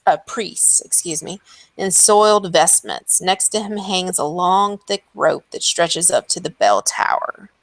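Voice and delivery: steady storyteller reading of boxed text; read-aloud scene narration. Acted. Game master reading the chapel description to the players, measured narration. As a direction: paint the ruined chapel for the table, evenly.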